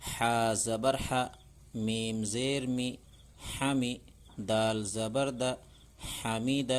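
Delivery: slow, measured reading of each letter with its zer; slow Urdu reading drill; slow drill recitation. Shown as a demonstration. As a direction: chant it out for children to repeat, one syllable at a time.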